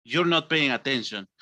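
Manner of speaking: low, controlled displeasure; acted anger after cheerfulness; angry teacher. Shown as a demonstration. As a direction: drop the pitch and scold. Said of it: "to angry".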